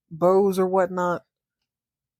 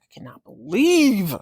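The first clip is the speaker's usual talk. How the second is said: indignant rant; 3 semitones higher than usual. Retold or imitated. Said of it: "She storms back into the house like".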